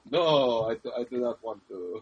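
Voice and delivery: mock a stubborn fighter in bad French; lightly put-on bad French accent. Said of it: "your worst French accent ever".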